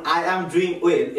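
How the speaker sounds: slow British-accent attempt. Shown as a demonstration. Teacher demonstrates for learners, British accent. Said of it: "British অ্যাকসেন্টে আমরা এটিকে প্রকাশ করতে পারি".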